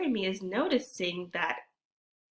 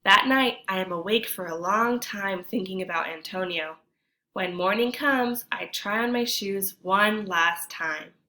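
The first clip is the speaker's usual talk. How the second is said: storytime reading voice, a touch lively; story narration; 4 dB louder than usual. A narrator's reading. Teacher reads the picture book to kids, lively narration. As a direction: read the tale to the class.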